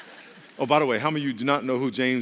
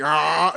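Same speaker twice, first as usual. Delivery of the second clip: music-video zombie growl; 6 dB louder than usual. Retold or imitated. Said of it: "you remember a singer in the music video?".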